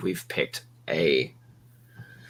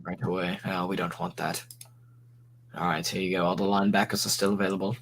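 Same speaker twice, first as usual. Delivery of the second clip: Sherlock Holmes voice; 4 semitones lower, faster than usual. Acted. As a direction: play the polite English butler, hushed. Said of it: "What's with the Sherlock Holmes shit?".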